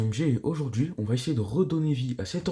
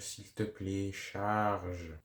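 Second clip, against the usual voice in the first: pleading; 2 semitones lower, 7 dB quieter, slower than usual. Real, not acted. Begging the old laptop to boot.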